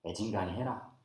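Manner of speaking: low, quiet Jeolla dialect. Shown as a demonstration. God's refusal put in the preacher's Jeolla dialect. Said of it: "전라도 사투리로 표현하면은".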